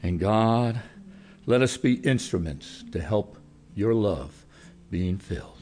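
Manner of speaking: earnest closing prayer to God. Acted. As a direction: pray over the congregation.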